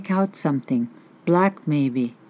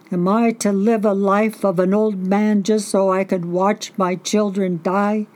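choked-up plea; 4 semitones higher than usual. Acted. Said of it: "He gasped back sobs".

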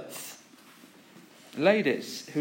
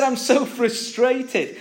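frustrated teacher; 6 semitones higher, slower than usual. Retold or imitated. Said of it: "but he said".

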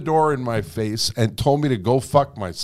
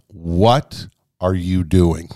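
slow self-question; 6 semitones lower, much slower than usual. Retold or imitated. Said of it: "I thought to myself".

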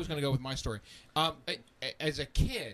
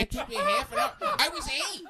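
high, laughing through the words; telling friends and laughing hard; 4 dB louder than usual. Real, not acted. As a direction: crack up while confessing.

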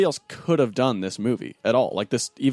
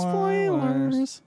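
mock announcement; 13 semitones higher than usual. Mimicking Josh's gimmick.

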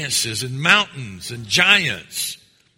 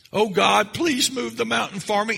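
mock begging; 6 semitones higher than usual. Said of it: "Christian begging and groaning".

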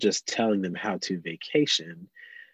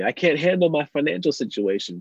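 high-pitched mock complaint; overwhelmed protest; 7 semitones higher than usual. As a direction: plead as if it's all too much. Voicing overwhelmed believers to Jesus.

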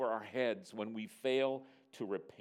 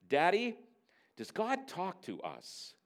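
lightly voiced little girl, higher pitch; stalling child; 6 semitones higher, slower than usual. Daughter stalling at bedtime, slow childlike question. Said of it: "She starts, yes, stalling".

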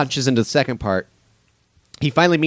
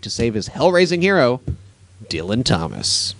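trailer-style read. Acted. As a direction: announce it like a film trailer. Reads out film title and synopsis.

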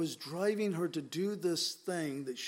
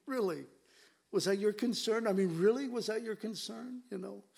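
incredulous challenge; 5 semitones higher than usual. Real, not acted. Preacher challenges the critics' motive.

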